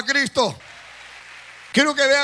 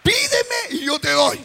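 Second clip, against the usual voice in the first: voice of the Lord; 7 semitones higher than usual. Retold or imitated. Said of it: "Y me dijo".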